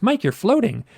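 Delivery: mock a German accent, pitched well up; imitated German accent, calling out in a high voice; Natasha. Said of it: "Natasha's voice with her German accent".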